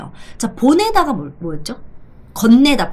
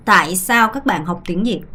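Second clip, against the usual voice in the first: slow model question; 2 semitones lower, much slower than usual. Shown as a demonstration. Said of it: "뭐 때문에 베트남어 공부하냐?".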